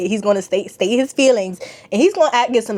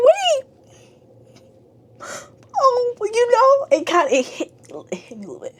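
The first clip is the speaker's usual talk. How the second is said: squeaky near-crying, fading away at the end; tearful; 13 semitones higher than usual. Retold or imitated. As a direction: get choked up and squeak the words out. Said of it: "crying the whole time".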